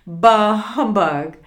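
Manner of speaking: loud, grumpy dismissal; forceful scornful outburst; mean old man. A narrator's reading. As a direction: play a cold-hearted miser blurting it out. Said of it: "said Scrooge".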